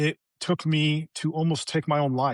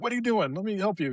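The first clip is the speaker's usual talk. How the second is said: mild mock yell, pitched up; mock motherly yell; 5 semitones higher than usual. Mom catching her son getting water, mild mock yell. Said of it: "My mom yelled at me".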